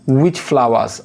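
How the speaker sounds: drawn-out answer option; teacher reading options aloud; very slow reading. Acted. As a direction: read each option out slowly. Reading exam question.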